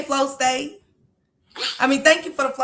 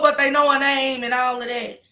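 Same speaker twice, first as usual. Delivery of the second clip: usual speaking voice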